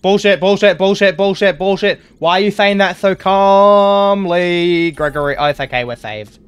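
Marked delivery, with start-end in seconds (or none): 0.0-2.0 exasperated ranting. Real, not acted. Angry repeated protest at game. 2.2-4.9 incredulous outburst. Real, not acted. Outraged at calm game voice.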